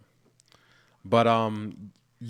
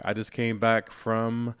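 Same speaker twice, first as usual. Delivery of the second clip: Nigerian accent; 3 semitones higher, 6 dB louder, slower than usual. Real, not acted. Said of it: "Was that your Nigerian accent?".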